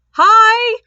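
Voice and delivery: high, loud, drawn-out holler; tipsy greeting. Retold or imitated. Inebriated guests greeting the other group, loud mock holler. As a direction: call back like an overexcited drunk guest. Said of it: "slightly more inebriated guests".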